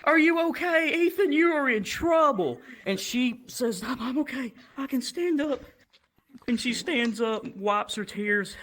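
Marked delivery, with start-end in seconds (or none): 0.0-2.6 very high-pitched mock alarm turning to scolding; shocked teacher. Teacher finds the hurt girl. 3.8-5.6 high, halting imitation; hurt girl. Hurt girl reassures everyone.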